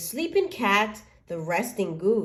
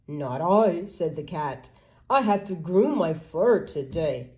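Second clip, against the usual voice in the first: lower cat voice; 4 semitones lower than usual. Acted. Cat refuses.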